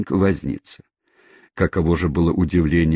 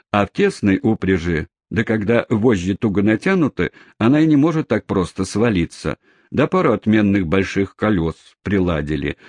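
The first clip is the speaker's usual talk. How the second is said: cabman telling it. Acted. Cabman explains the horse.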